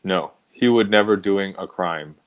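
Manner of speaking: lightly put-on fake Asian accent, broken English; a hint of stereotyped Asian accent, barely voiced. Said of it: "that he speaks with, with an accent".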